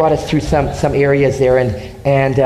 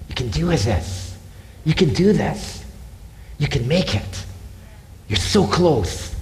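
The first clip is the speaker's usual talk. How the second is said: encouraging cheer; 6 dB quieter than usual. Acted. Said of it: "people around that were cheering me on".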